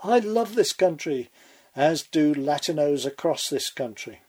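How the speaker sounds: a hint of a teary plea, imitating; lightly voiced sentimental quote, imitating; mock tearful. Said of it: "squeezing out a tear".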